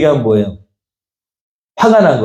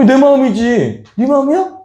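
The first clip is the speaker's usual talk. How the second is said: higher-pitched, defiant comeback; angry retort; 9 semitones higher than usual. Acted. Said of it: "화가 났어". (화나서 대드는 말투)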